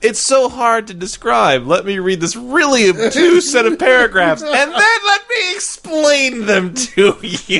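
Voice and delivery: very high, sing-song, swooping teasing voice. Teasing the other speaker by imitating what he just said: mocking imitation of the other speaker. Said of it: "You just were like".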